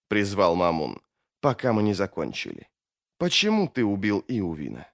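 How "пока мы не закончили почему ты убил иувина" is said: lightly voiced foe, low and subdued; quiet, controlled questioning; composed accuser. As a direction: put the accusation softly. Mamun questions the mage.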